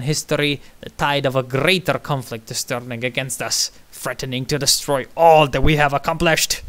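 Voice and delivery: booming rally oration; dictator's speech. Acted. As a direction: address the crowd like a strongman. Reads dictator's speech aloud.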